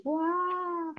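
long, slow, high crying guau; wailing with pain. Shown as a demonstration. Teacher demonstrates a comic baby's pained crying guau. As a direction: stretch guau out slow and high like a sobbing wail. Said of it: "con mucho dolor".

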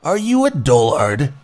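scolding keeper. Acted.

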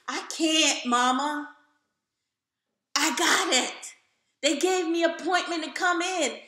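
loud and high, rushing the news; excited. Retold or imitated. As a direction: burst with the big news. Telling mother excited news.

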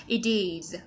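"It is" said like "idiz"; flapped T. Shown as a demonstration. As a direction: soften the t of "It" to a quick d. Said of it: "chúng ta sẽ đọc là the".

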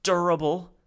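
high alien voice, heavy and grim; a dark ominous word; said darkly. Acted. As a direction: Salo grimly doubting himself. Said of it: "he said darkly".

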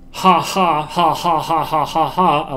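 steady, evenly spaced ha-ha laugh; demonstrated laugh. Shown as a demonstration. Showing laughing is easiest to animate, demonstrated laugh. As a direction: push out a string of deliberate laughs. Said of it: "a laugh".

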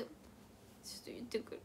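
unvoiced soft whisper. Real, not acted. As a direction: drop into a whisper. Whispered aside.

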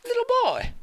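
put-on very high, loud call for the boy; mock father call. Father calling for his lost son, high loud cry. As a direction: cry out for him like a worried dad.

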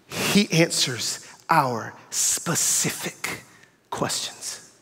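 low, very slow, hushed awe; trembling voice. Retold or imitated. Friend phoning ten minutes later, slow, low, trembling. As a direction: imitate an overwhelmed friend, drawn out and fading. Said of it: "his voice trembling".

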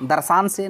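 long aa in the second syllable of दर्शान; wrong word form. Shown as a demonstration. Teacher rejecting a wrong root word, दर्शान with long second aa. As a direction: say दर्शान with short first vowel, stretched second. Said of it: "दर्शन से। किससे? दर्शन का ही".

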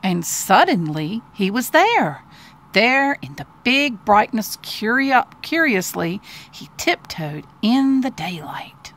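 put-on slow, deliberate reading to a child; expressive children's story narration; storybook narration. A narrator's reading. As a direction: read it like a picture book, lingering on key words.

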